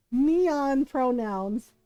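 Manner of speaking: quoting mom. Retold or imitated. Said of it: "and I quote".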